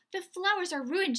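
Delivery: high, loud upset wail; distressed mum wailing over the garden; upset cry. Acted. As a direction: lament the spoiled flowers. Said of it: "She was very upset".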